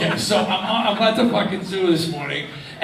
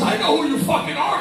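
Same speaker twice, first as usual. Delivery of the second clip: excited fan; 11 semitones higher, faster than usual. Retold or imitated. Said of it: "He goes".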